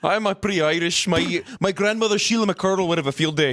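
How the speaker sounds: put-on playful Irish accent, pitched a little up; joking attempt at an Irish accent. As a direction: put on an Irish lilt on request. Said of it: "can you do an Irish accent?".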